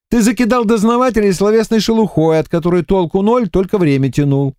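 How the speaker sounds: a sharp investigator lays out his guess; voiced Alexander. A narrator's reading. Александр разоблачает эмиссара, слегка поддразнивая.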